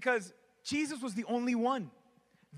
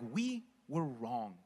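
dejected; 11 semitones lower, 6 dB quieter, much slower than usual. Acted. Disappointed disciples voiced.

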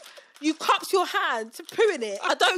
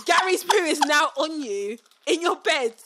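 laughing disbelief; much slower than usual. Real, not acted.

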